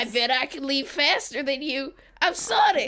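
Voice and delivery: put-on cocky boast in a loose Southern accent; southern-accented Sonic. Boasting of speed to co-host as Sonic, mock Southern accent. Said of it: "Why does Sonic have a southern accent?".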